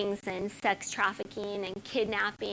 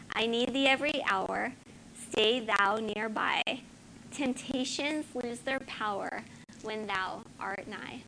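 reverent hymn reading. Acted. Pastor reading Lord I Need Thee to congregation, prayerful reading. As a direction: let each line fall away gently. Reads hymn lyrics aloud.

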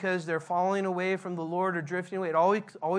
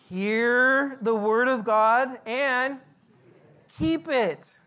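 louder, very slow, each word weighed; preaching climax; 3 semitones higher, 5 dB louder, much slower than usual. Acted. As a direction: proclaim it like the punchline of the sermon. Climax of Jesus' quoted words.

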